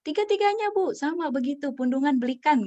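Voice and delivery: high, loud fed-up father, falling as he goes; exasperated father. Retold or imitated. Retelling the father complaining about his three kids, high and loud. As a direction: start loud and high, then settle down. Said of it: "katanya gitu".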